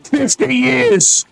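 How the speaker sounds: high, slow indignant outburst; indignant exclamation. Acted. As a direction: stress the absurd wait. Indignant reveal.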